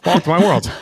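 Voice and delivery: a knowing laugh through the words. Real, not acted. Host laughing along with a tired fellow mom.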